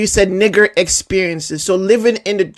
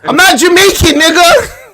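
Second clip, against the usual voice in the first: louder, higher, indignant; indignant protest; 6 semitones higher, 4 dB louder than usual. Real, not acted. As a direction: protest it with a rising, offended edge. Indignant denial.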